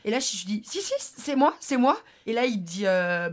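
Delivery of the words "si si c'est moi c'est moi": insistent denial. Retold or imitated. Insisting she was driving.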